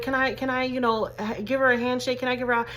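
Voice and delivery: high, eager asking voice; eager strangers. Retold or imitated. Strangers ask mom to high-five the pretty girl, high and eager. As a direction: ask sweetly to shake the child's hand. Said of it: "they used to be like".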